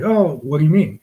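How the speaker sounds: a hint of feigned innocence; mock innocent. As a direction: act like you have no idea. Partner playing innocent.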